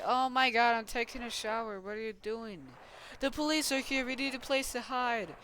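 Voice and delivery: high-pitched play-acted alarm; mock panicked exchange. Figure in the shower warned of police, mock panic. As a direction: squabble in pretend panic.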